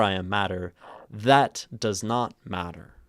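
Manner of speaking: loud, emphatic THAT mid-line; stress on THAT. Shown as a demonstration. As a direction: hit THAT hard within the line. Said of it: "instead italicized that".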